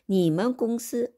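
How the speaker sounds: 你们公司 said very slowly and clearly, word by word; slow model Chinese. Shown as a demonstration. Teacher modelling Chinese for Korean learners, slow and clear. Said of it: "너희 회사 입구".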